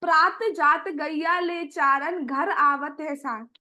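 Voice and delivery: slow, measured verse recital; poem recitation. Acted. Preacher recites the mother's verse, slow. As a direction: intone the old verse slowly. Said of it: "अब मैया कहती है कि".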